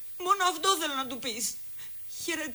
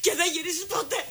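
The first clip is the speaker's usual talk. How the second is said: rising into a sobbing cry; 5 semitones higher than usual. Acted. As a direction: voice breaking upward on ποτέ. Desperate outburst about never returning.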